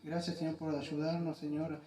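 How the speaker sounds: hushed pastor's prayer; closing prayer. Real, not acted.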